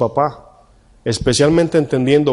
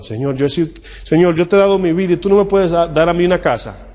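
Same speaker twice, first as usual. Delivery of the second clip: mock entitled plea, higher and quick; entitled prayer; 4 semitones higher, faster than usual. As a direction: imitate a believer reproaching God in prayer. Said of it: "Es mala actitud".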